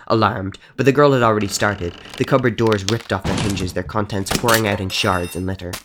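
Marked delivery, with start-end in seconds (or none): none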